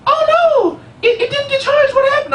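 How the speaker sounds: put-on high, alarmed little girl voice; high, upset child voice; panicked little niece. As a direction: play the kid dismayed at her dead phone.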